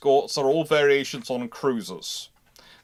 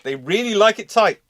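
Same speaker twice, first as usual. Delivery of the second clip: high, loud, teasing punchline; playful emphasis; 8 semitones higher, 6 dB louder than usual. Real, not acted. Host joking about ship sizes, playfully loud. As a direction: tease it like a bedtime story joke. Goldilocks bears joke, mock emphasis.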